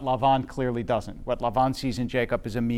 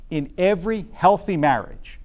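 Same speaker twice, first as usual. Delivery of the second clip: healthy lifted a bit higher; healthy said slightly higher, set apart; stress on healthy; 4 semitones higher than usual. Shown as a demonstration. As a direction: lean on the word healthy. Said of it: "I emphasize the word healthy marriage".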